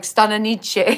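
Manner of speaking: "Stana Nietzsche" with an Italian lilt, NEE-che at the end; Italian spin. Shown as a demonstration. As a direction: give the name an Italian ring, "Stana Nietzsche". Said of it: "am I giving it a whole Italian spin".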